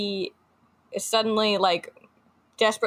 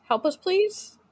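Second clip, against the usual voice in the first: pleading Gollum; 10 semitones higher than usual. Retold or imitated. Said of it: "this sounds more like".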